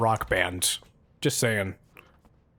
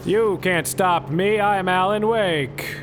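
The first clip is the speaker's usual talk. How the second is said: heroic declaration; 4 semitones higher, slower than usual. Pretend. Hero declaration.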